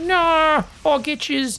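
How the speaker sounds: high, teasing dad voice, tossed off lightly. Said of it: "He's like".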